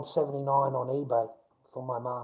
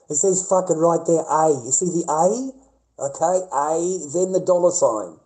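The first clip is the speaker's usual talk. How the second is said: louder, pointed, almost shouting; loud spelling out; 3 semitones higher, 8 dB louder than usual. Real, not acted. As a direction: drive the letter A home. Spelling it out to doubter.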